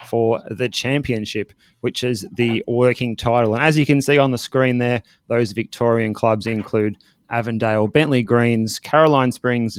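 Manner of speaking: measured news desk delivery; news read. Real, not acted. Presenter opening the football news desk, news read. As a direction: read it out as a bulletin.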